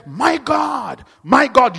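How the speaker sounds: loud, high desperate cry of my God; shouted cry. Pretend. Preacher acting out a driver's panic, shouting high. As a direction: shout it out like someone in sudden panic. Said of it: "where you said".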